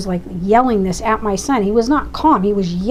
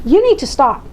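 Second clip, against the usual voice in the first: raised, insistent order; firm angry demand; 4 semitones higher than usual. Retold or imitated. Mother ordering the district attorney to stop, firm and angry. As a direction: lay down the law. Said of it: "so frustrated and so angry".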